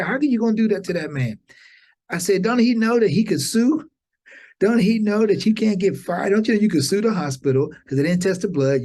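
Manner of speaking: high, urgent complaint to God; pleading protest. Retold or imitated. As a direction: argue with God that it isn't fair.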